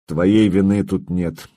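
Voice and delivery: slow calm reassurance; reassuring. Acted. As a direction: soothe the young man. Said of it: "успокоил я парня".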